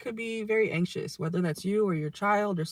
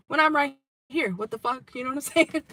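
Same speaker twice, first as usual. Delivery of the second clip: louder, higher, half-laughing indignation; laughing outrage; 7 semitones higher, 4 dB louder than usual. Real, not acted. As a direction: vent it through a laugh. Indignant memory, loud and laughing.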